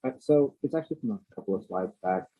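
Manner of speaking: muffled, as if through a hand; speaking through a covered mouth. Real, not acted. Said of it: "you're a little muffled".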